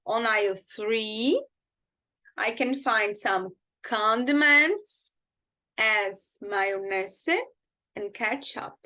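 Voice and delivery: slow, drawn-out teaching delivery; model sentence for repeating. Shown as a demonstration. Teacher giving a sentence to repeat, slow and measured. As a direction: say it slowly, leaving gaps for the learner to follow. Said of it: "Repeat with me".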